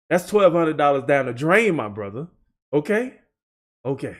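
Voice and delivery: breathless and tired; panting between words; out of breath. Real, not acted. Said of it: "Now I'm out of breath".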